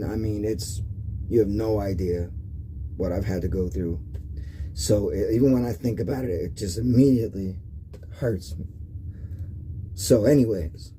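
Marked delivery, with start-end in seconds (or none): 0.0-8.7 emotional. Real, not acted. Telling viewers about the child that wasn't his, softly emotional. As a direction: voice sinks low and soft as the hurt comes back. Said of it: "I'm an emotional guy".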